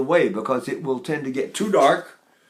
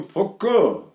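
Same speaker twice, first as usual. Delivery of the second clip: Neapolitan poco; 5 semitones higher than usual. Retold or imitated. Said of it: "He go".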